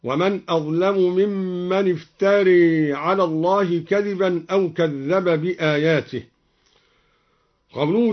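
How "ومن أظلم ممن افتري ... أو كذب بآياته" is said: افتري ending in a long "ay"-like e; imala on افتري. Shown as a demonstration. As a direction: recite with the final a of افتري tilted towards e. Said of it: "أمال قوله تعالى الراء من افترى".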